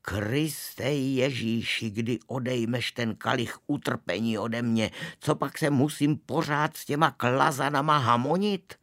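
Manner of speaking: a put-upon usher wailing to heaven, building; high exasperated voice. Acted. Usher complaining to Christ about the boys, building mock lament. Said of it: "pravil děsně vysokým hlasem".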